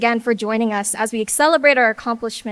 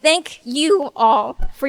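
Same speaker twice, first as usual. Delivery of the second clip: getting emotional; 4 semitones higher, 8 dB louder than usual. Real, not acted. Class president fighting tears while thanking her classmates, choked up. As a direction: push through the tears of pride. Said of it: "sorry, I'm getting a little emotional".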